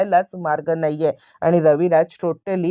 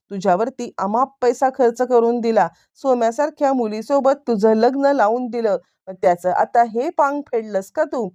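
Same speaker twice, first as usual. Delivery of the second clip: higher-pitched, mildly heated scolding; angry rebuke; 4 semitones higher than usual. Retold or imitated. Angry elder brother confronts the man he provided for, mildly heated rebuke. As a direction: act out an indignant telling-off. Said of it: "चिडलेले Raviraj त्याच्यावरती चांगलेच उलटतात".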